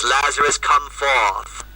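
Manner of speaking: put-on a light British accent, calling Lazarus out; lightly voiced British Jesus calling out, a hint of Cambridge; British-inflected voice. Lecturer voicing Jesus calling Lazarus from the tomb, light British accent. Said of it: "he calls out in a British voice".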